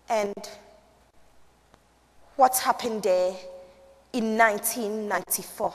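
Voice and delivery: measured, hushed storytelling with long pauses; Rwandan survivor telling her story. Acted. Performs as Juliet, survivor.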